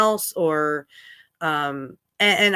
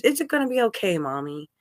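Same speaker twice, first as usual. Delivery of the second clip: put-on comforting child. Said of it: "he's trying to comfort me".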